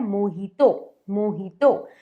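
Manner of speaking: मोहितो with J said as H; correct pronunciation. Shown as a demonstration. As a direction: say मोहितो as "mo-hee-to". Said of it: "आज से हम इसे बोलेंगे मोहितो".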